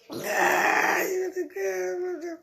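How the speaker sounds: drawn out. Real, not acted. Sudden high drawn-out exclamation.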